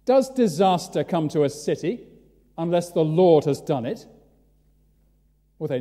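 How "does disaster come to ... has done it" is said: fired-out question. Retold or imitated. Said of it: "he fires out the question".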